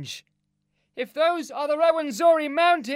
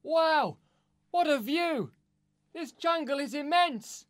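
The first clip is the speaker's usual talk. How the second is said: very high-pitched, awestruck Neil; amazed cry. Acted. Neil at the treetop sees the jungle canopy, crying out amazed. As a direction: cry out in wonder at a huge view. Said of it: "he cries".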